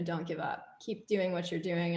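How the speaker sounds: dad urging her softly not to quit; encouraging dad tone. Retold or imitated. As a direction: lightly imitate dad's gentle push. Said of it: "the tone of his voice".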